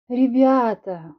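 slow, stretched-out call; drawn out. Acted. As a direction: drawl the word to coax them. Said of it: "протянула я".

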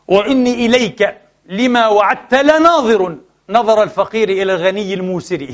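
slow, measured verse with drawn-out words; formal, stretched poetic delivery; poetry recitation. Acted. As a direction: recite the classical Arabic verse deliberately.

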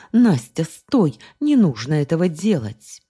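loud, high desperate call; shouting. Acted. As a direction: cry out to stop her. Guardian shouts to stop her.

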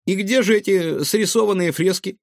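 high, inquisitive little voice; curious and interested. Acted. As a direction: pipe up with keen interest. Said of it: "заинтересовался Гаврош".

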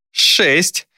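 counting down a life; demon counting. A narrator's reading.

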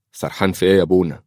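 quick, probing question; suspicious. Acted. The major questions the distracted priest, suspicious. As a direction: ask it fast with a touch of suspicion. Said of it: "في شك وريبة".

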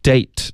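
DATE cut off on a clean t; crisp final stop. Shown as a demonstration. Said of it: "一定要有一个干脆的停顿".

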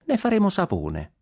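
high, sweetly delivered threat. Acted. Townspeople answering the shouting governor, in a sweet high voice. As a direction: make the threat sound sweet. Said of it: "dissero i popolani con voce dolce".

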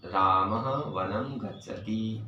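slow, measured Sanskrit recital, every word spaced; slow demo recital. Shown as a demonstration. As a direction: recite it slowly, word by word, as a first utterance. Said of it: "प्रथम बार उच्चारण करूँगा". (धीमा, ठहर-ठहर कर संस्कृत पाठ)

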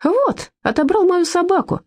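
high, slow whining little voice; противный жалобный голосок; whiny complaint. A narrator's reading. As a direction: whine pitifully to the officer. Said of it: "противным, жалобным голоском".

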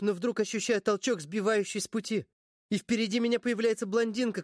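ordinary delivery

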